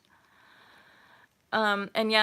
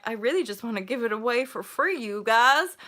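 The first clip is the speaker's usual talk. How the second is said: generous sincere; 3 dB louder than usual. Pretend. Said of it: "benevolent and giving heart".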